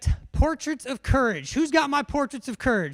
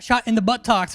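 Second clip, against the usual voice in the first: Forrest Gump; 7 dB louder than usual. Acted. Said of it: "Who's ever seen Forrest Gump?".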